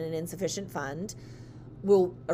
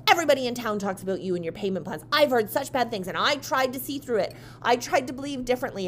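retold customer tirade, mildly heated; losing it; 4 semitones higher than usual. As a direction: rant on as the aggrieved customer. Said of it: "she starts just losing it".

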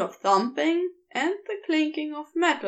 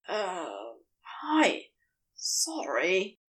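barest whisper; 5 semitones lower, 3 dB quieter, slower than usual. A narrator's reading. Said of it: "he whispers on the barest of breaths".

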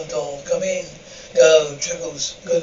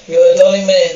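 louder, beaming thanks to the father; hearty thanks; 6 dB louder than usual. Acted. Irish brother thanking the father, loud and hearty. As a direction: call out the gratitude warmly.

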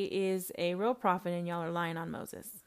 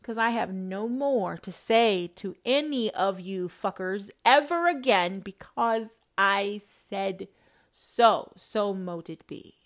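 booming, slow God voice laying down the law; a hint of a thundering God; 2 semitones higher, 4 dB louder, slower than usual. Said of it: "God said".

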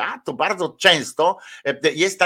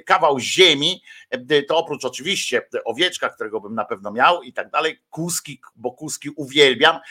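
ordinary talk, nothing marked

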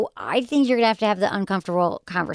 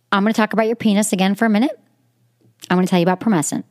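louder, upbeat sponsor read; 4 dB louder than usual. Acted. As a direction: sell it like a host-read ad.

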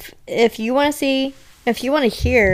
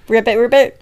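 croaky ribbit, louder; frog voice; 5 dB louder than usual. Pretend. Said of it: "say whatever a frog would say".

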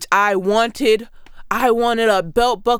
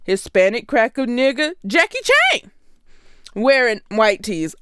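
Atlanta accent. Shown as a demonstration. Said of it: "a very Atlanta accent".

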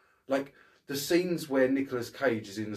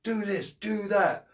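mock Travolta cop; 8 semitones higher, 3 dB louder than usual. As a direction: parody a gung-ho movie cop barking orders. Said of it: "he's all like".

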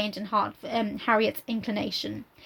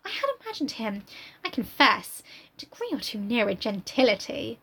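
lofty Emma; 4 semitones higher than usual. Acted. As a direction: look down on him. Reads Emma's reply.

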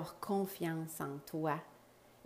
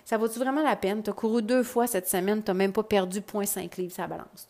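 a little louder, lightly voiced discouraging ego; a hint of a grumbling inner critic, louder; mock nagging ego; 4 dB louder than usual. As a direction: play the ego talking you out of it, half-hearted. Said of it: "ton ego va te dire".

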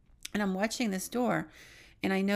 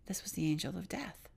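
hushed whisper; 6 dB quieter than usual. Retold or imitated. Realizing the figure is death.

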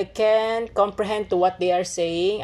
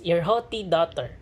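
American accent. Shown as a demonstration. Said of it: "in American accent".

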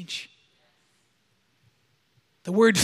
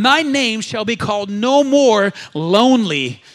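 slow, louder declaration; proclaimed out loud; 5 dB louder, slower than usual. Real, not acted. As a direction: proclaim it with the crowd. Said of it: "One more time".

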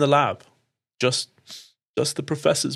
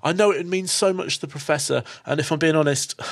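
grateful gush; 6 semitones higher than usual. Acted. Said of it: "She's like".

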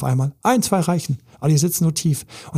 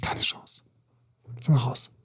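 whisper; 5 dB quieter than usual. Real, not acted. Coach's blunt verdict, hushed.

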